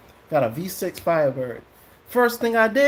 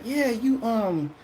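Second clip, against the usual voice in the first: imitating the pastor; 5 semitones higher than usual. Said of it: "He said".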